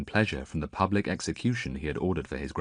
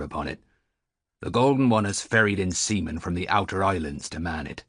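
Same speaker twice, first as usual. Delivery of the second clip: put-on old sailor.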